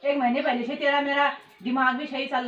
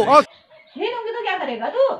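slow challenge; 4 semitones higher, 8 dB louder than usual. Acted. Mother challenging son loudly.

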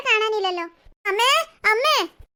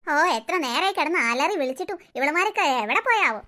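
put-on low, tired old grandmother muttering to herself; lightly voiced grandmother complaining under her breath; grumbling grandmother; 4 semitones lower than usual. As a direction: grumble like a worn-out old woman.

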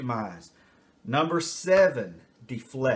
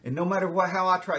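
put-on raised, whiny child voice; whiny self-pity; 6 semitones higher than usual. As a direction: play the pitiful victim kid. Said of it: "turn myself into a victim".

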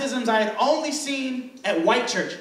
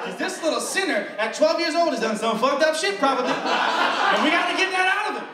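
mock preacher casting out a demon through laughter; hammed-up preaching, higher and laughing; 3 semitones higher than usual. Preacher condemning the twelve-year-old sinner, laughing through it. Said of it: "That was a black church".

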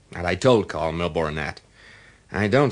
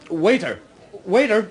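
higher and louder calls for the waiter; rising call, the second waiter much higher and louder; 12 semitones higher, 5 dB louder than usual. Acted. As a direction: hail a waiter across a busy bar. Calling the waiter across the bar.

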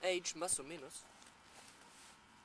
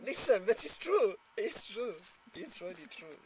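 louder, laughing through the words; laughing insistence; 4 semitones higher, 8 dB louder than usual. Real, not acted. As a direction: insist it's true while you can't stop laughing. Insisting while still laughing.

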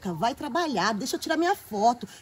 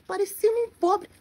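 whiny crying; 5 semitones higher than usual. Acted. Girl laments to viewers.

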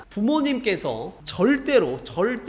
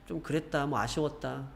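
mumbled, much softer grumbling; mother grumbling quietly about the result; muttering mother; 10 dB quieter than usual. Retold or imitated. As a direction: mutter the disappointment under your breath. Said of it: "중얼중얼대면서".

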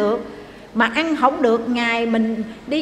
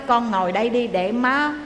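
kneeling plea. Retold or imitated. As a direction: plead gently, bowing to her. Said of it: "Bữa đó cổ quỳ, cổ lại".

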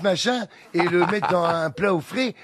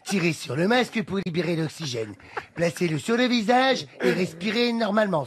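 flight safety announcement; 2 semitones higher than usual. Shown as a demonstration. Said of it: "Vas-y, je te suis ... Fais-le".

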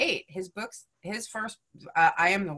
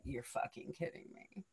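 laughing disbelief; 4 semitones lower, 16 dB quieter than usual. Retold or imitated. Inner reaction, laughing.

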